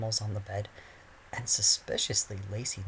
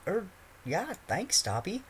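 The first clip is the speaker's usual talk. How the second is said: put-on muttering boy; 10 semitones higher than usual. A narrator's reading. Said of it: "Harry muttered".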